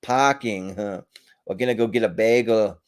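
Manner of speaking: put-on a lightly done Boston accent that drifts toward Irish; bad Boston accent. To viewers, a second go at Boston, hammed-up Boston accent. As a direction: lean on "Parking" in a half-hearted Boston accent. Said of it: "attempt to do a Boston accent".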